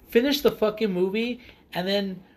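loud, heated rant at the actor; angry rant. Real, not acted. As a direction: vent the outrage hard. Ranting at Ezra Miller.

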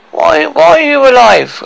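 high, loud, stunned demand; incredulous shock. Acted. Dwarf finding poisoned girl alive, incredulous. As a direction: exclaim it high in outraged disbelief.

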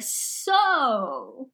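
lightly voiced Scottish villain; a hint of Scottish brogue, measured delivery. Captured villain resigned to destruction by Andalites, light Scottish accent. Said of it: "this voice I'm doing".

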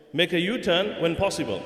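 lightly imitated sat nav announcement; polite sat nav lady. Sat nav lady repeating her correction to the driver, politely. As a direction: give the instruction as a courteous navigation lady would. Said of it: "Very politely".

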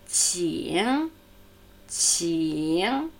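"Qing" ending on a resonant ng; back-tongue N. Shown as a demonstration. Teacher has learners guess the N, "Qing" with clear final ng. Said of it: "der hintersprachliche Konsonant N".

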